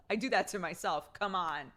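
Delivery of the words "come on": slow, drawn-out self-encouragement; coaxing pep talk. Acted. Talking herself through trapped gas, coaxing. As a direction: coax it along, stretching the key words.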